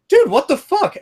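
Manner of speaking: high, loud mock outrage. Telling friend about old lady cutting in line, high mock outrage. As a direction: squeal it in indignation.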